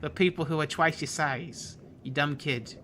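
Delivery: put-on talking down to a small kid; bully taunting. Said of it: "It's like".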